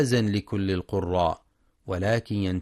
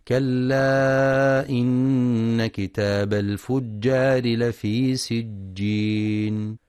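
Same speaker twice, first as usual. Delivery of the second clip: slow, drawn-out tajweed chant; Quran recitation; much slower than usual. Acted. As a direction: recite with measured, melodic stretching. (تلاوة مجودة متأنية)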